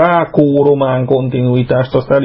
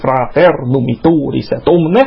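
slow, metrical Latin verse chant; scanned Latin recitation. Shown as a demonstration. Showing colleagues how Ovid is scanned, metrical recitation. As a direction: scan the distich, beat by beat. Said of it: "Ezt így kell skandálni".

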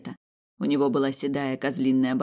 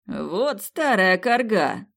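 delighted hiss; 5 semitones higher, 4 dB louder, much slower than usual. Acted. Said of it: "восторженно прошипел демон".

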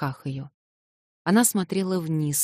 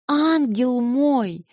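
"ангел мой" stretched very slowly, higher and louder; drawn-out endearment; 9 semitones higher, 5 dB louder, much slower than usual. Acted. Alyosha begs Natasha, drawing out "ангел мой" slow, high and loud. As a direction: linger on "ангел мой", pleading.

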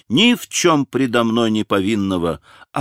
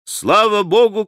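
sharply higher, exultant shout of relief; joyful cry; 8 semitones higher than usual. A narrator's reading. Officer after the duel shot, crying out in joy. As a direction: cry out thanks to God. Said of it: "кричу".

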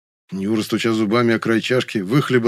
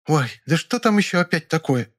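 displeased; 7 semitones higher than usual. Acted. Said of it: "недовольный голос".

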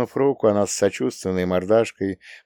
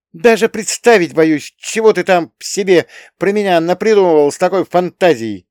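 higher and louder, worked-up protest; heated exclamation; 10 semitones higher, 7 dB louder than usual. Acted. Young woman scolds him for his wild fantasies, loud and high. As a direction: throw it at him indignantly.

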